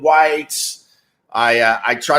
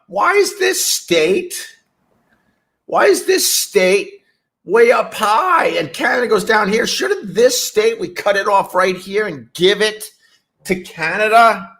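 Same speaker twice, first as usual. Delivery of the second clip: mock puzzled; 9 semitones higher than usual. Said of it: "you're like".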